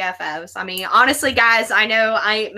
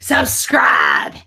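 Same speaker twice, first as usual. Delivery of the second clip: much lower, loud call; shouted cue; 4 dB louder than usual. Real, not acted. Guest shouting the outro word for the host. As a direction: bark the word to finish his line.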